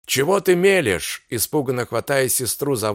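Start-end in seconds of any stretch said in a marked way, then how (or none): 0.1-1.2 frightened cry. Acted. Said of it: "испуганно ... вскричал".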